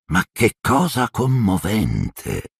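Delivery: slow, drawn-out mock sympathy; a touch of sneering; mocking hiss. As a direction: savour the sarcasm slowly. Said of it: "sibilò".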